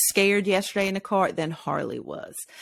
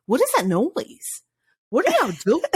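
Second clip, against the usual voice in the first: alarmed quote; 8 semitones higher, faster than usual. Retold or imitated. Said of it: "And then I was like".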